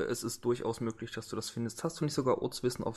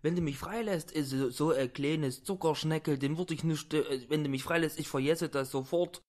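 higher, pleading thug voice; 5 semitones higher than usual. Acted. Thug begs the woman who kidnapped him, pleading and higher. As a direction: wheedle and beg to be let go.

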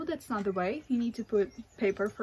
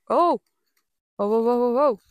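loud startled exclamations; sudden alarmed whoa whoa; 9 dB louder than usual. Real, not acted. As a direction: jump back as the fire flares. Fire flares up suddenly.

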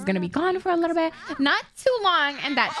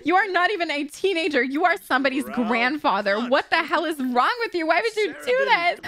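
rude scolding; 2 semitones higher than usual. Pretend. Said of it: "Give him a rude introduction".

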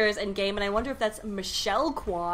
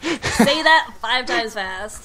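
laughing and louder; 7 dB louder, much slower than usual. Real, not acted. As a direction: laugh through it. Laughing challenge.

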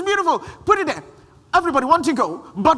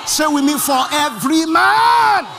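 slower, louder "For every man"; louder call and response; 2 semitones higher, 4 dB louder than usual. Real, not acted. Preacher rousing the congregation, louder call-and-response. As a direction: drive the crowd to answer back.

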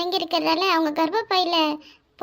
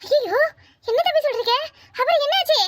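shocked dismay; 7 semitones higher than usual. Acted. Mother hearing her daughter was stabbed, high shocked dismay. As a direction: caught off guard by terrible news.

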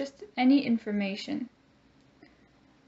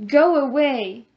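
loud, sharp "Go away"; angry command; 3 semitones higher, 7 dB louder than usual. Shown as a demonstration. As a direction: push the friend away with it. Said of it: "In the example we have".

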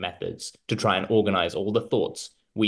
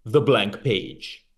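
movie trailer voice; much slower than usual. Pretend. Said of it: "mid-nineties movie trailer voice".

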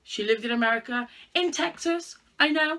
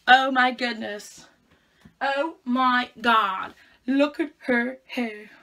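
slow, louder, drawn-out mock shock; mock astonishment; 7 dB louder, much slower than usual. Real, not acted. Vlogger gawping at her own thick hair, slow mock shock. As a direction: gasp over it as if seeing a monster.

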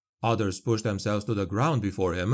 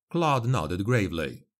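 plain reading voice

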